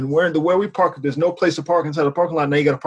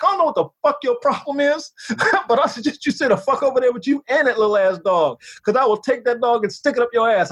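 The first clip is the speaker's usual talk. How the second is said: raised pitch, mild retold anger; retold cursing-out; 4 semitones higher than usual. Driver threatening the dog walker, retold cursing-out. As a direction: act out telling someone off, half in fun. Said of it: "I'm cursing this dude out".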